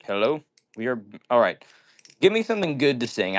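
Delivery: ordinary talk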